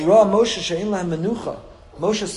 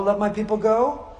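higher, firmer command aimed at Pharaoh; demand to Pharaoh; 4 semitones higher, 3 dB louder than usual. Retold or imitated. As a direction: issue it as a demand to the king. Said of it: "He had to say to Paro".

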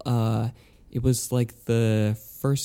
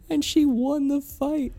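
excited. Real, not acted. Mock triumphant punchline.

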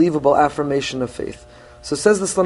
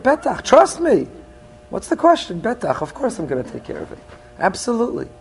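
mock-casual promise, pitched higher; breezy reassurance; 7 semitones higher than usual. Friend shrugging off a worried request, breezy reassurance. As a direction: brush off the doubt lightly, no worries.

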